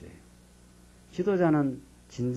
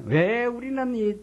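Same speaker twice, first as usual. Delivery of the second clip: higher, slow, hammed-up wail; mock wailing; 10 semitones higher, slower than usual. Shown as a demonstration. Pastor acting out the Israelites' wail for the congregation, mock wailing. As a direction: drag it out like a staged lament. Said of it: "내가 통곡을 한번 했으면 좋겠는데".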